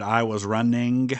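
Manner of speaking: "running" with the G sounded hard at the end; hard final G. Shown as a demonstration. Streamer explains Birmingham speech, sounding the final G in "running". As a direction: imitate Forrest Gump, ending "running" on an audible hard "guh". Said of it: "that G on the end of the word running".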